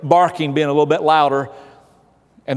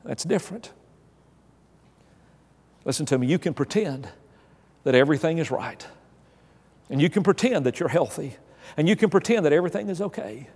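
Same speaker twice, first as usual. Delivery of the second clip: softened plea; 6 dB quieter than usual. Acted. Softened preaching after climax.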